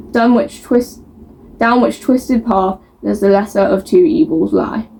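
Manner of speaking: measured thriller-blurb narration; blurb reading. A narrator's reading. Book vlogger reading a thriller's back cover, measured narration. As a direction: read the crime blurb out to viewers.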